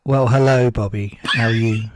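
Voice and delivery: John. Pretend. Standing in for the missing co-host, hammed-up impersonation. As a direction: pretend co-host with a rich golden voice. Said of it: "You pretend to be John for a second".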